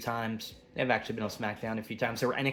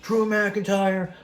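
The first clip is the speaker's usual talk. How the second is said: angry authority figure; 7 semitones higher, 3 dB louder than usual. Retold or imitated. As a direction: play the furious general manager laying down the law. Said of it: "Nick Aldis come out and be like".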